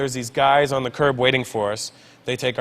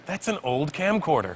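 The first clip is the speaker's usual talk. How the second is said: put-on Indian accent; 5 dB quieter, slower than usual. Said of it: "my Indian side kicks in".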